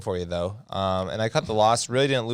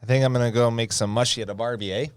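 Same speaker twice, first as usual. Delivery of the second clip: put-on Canadian Australian accent; faster than usual. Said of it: "That was Canadian Australian".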